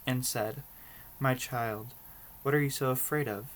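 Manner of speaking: story narration. A narrator's reading. Reader tells viewers a Brothers Grimm story, measured storybook narration. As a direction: read it out as an unhurried storybook. Reads fairy tale aloud.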